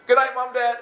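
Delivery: high, loud call to parents; calling out goodnight. Retold or imitated. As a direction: holler upstairs to mom and dad.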